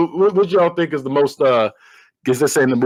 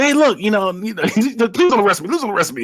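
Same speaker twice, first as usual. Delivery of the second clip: higher-pitched comic begging; mock pleading; 7 semitones higher than usual. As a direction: plead with the police, imitating the beaten villain. Retold villain pleading with police.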